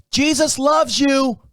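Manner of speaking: high, slow, drawn-out imitation; exaggerated mouthing. Panhandler mouths it through the car window, exaggerated and slow. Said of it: "He's mouthing".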